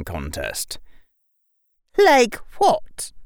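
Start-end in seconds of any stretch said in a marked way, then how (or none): 2.0-3.1 high, loud, clipped question; stern witch professor. A narrator's reading. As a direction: she finally breaks the silence, sternly. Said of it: "said finally".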